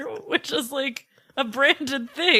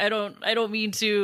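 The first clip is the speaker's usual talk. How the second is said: mock crying, lower pitch; 4 semitones lower, 3 dB quieter than usual. Retelling how Kim answered while crying in a fight: imitating Kim crying. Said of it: "Kim is crying. Kim is like".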